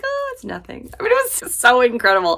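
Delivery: a hint of a sweet friend waving off thanks; modest friend imitation. Voicing Tori modestly brushing it off.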